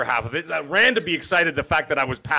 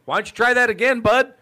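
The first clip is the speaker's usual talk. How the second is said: raised-pitch mock threat; Canadian challenge; 6 semitones higher than usual. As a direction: play a Canadian warning before a beating. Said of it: "If you hear a Canadian say something like".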